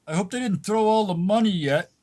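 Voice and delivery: high, loud, pleased voice; eager greedy actor. Acted. Actor hoping the crowd's coins are still his, high and loud. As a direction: jump in keen for the money.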